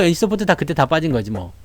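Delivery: ordinary delivery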